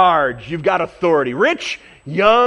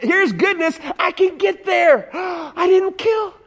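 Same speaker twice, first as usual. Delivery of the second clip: smug excitement; 10 semitones higher, slower than usual. Retold or imitated. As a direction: play the man sure he's made it. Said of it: "This man is like".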